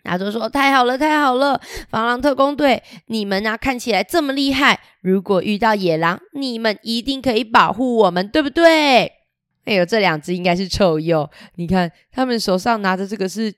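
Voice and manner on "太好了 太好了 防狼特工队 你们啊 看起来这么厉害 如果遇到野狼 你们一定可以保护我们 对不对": bright, higher cheering crowd; excited cheering. Acted. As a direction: cheer them on with relief. Animals cheer the squad.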